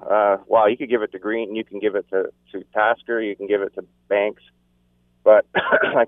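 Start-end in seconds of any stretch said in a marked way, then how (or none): 5.2-6.0 hoarse and slow from yelling; strained hoarse throat, clearing it. Real, not acted. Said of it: "sorry for yelling in my throat".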